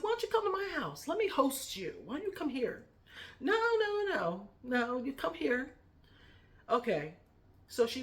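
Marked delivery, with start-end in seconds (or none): 0.0-2.9 high, fast, eager invitation; playful retelling of her own invite; eager retold offer. Retold offer to host aunt. 3.4-5.7 high, loud, firm refusal as the auntie; aunt refusing the offer, high and insistent. Retold or imitated. Acting out aunt's insistent refusal.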